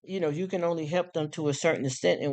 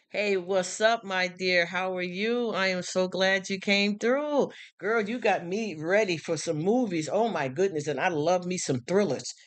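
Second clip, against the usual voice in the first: casual hype greeting; 3 semitones higher than usual. Shown as a demonstration. Host greeting a girlfriend ready for movies, casual and hyped. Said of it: "when I talk like this".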